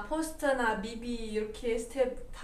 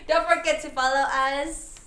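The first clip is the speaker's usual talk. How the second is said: laughing; 8 dB louder, slower than usual. Real, not acted. Laughing through the group outro.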